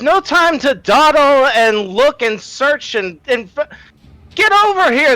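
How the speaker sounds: very high shout in a put-on character voice. Calling the rest of the group over in character: in-character shout. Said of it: "he shouts over to the rest of the group".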